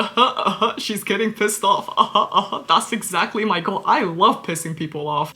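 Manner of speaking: chuckling, pleased with herself; enjoy annoying the scammer; gleeful laughter. Real, not acted. To the viewers, a gleeful chuckling aside about the scammer. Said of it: "And I'm like".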